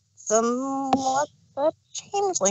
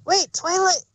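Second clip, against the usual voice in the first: calling after; 9 semitones higher than usual. Acted.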